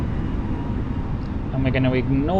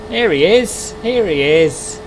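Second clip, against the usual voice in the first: excited; 6 semitones higher, 6 dB louder, slower than usual. Real, not acted. Spots the other aircraft arriving.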